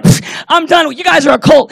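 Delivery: scoffing, loud mock indignation; mock outraged shout. Offended churchgoer walking out, mock outraged shout. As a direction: huff and storm off loudly.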